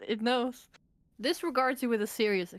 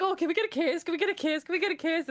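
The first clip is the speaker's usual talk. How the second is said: mock pleading; 8 semitones higher, faster than usual. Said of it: "They were like".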